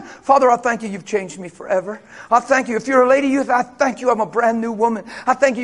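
steady, calmer declaration of thanks; calm confident prayer. Shown as a demonstration. Believer driving, thanking God calmly and assured. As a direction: speak it evenly, assured and grateful. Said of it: "the prayer to say instead".

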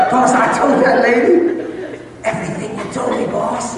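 high squeaky henchman whine; squealing little imp making excuses; frantic imp. Acted. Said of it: "It says, "Boss".

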